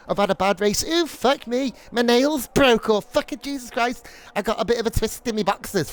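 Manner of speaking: lampoon the sulky rage quitter; mock whiny quitter. Streamer mocks the teammate who rage quit with a hammed-up whine.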